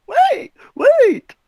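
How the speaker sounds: loud urgent call; shouting. Acted. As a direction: yell to stop everyone. Interrupts the fight.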